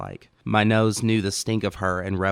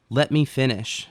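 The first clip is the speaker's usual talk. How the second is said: firm and raised; sharp, interrupting; 6 semitones higher, 4 dB louder than usual. Acted. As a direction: cut in hard. She cuts him off.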